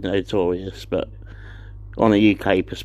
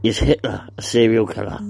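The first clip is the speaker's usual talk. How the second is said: whispered villain growl, Cockney tinge; hushed menacing serial killer voice; Cockney Batman. Acted. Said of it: "it's like a Cockney Batman".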